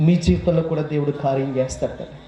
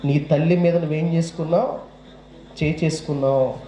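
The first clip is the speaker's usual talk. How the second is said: stern accusing divine voice; voice of God. Acted. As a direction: accuse him gravely, like a judge. God's voice accusing him.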